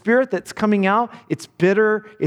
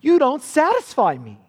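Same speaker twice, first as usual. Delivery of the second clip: raised, a touch of a contemptuous husband; cruel husband; 7 semitones higher than usual. Acted. Preacher repeating the husband's put-down to his wife, raised and contemptuous. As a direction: say it again as a put-down. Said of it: "He trashes her".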